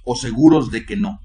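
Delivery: fervent pleading prayer to the Lord; heartfelt congregational prayer; earnest prayer. Acted. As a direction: pray it earnestly, pausing on each Señor. Preacher leads opening prayer.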